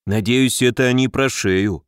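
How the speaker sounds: ordinary delivery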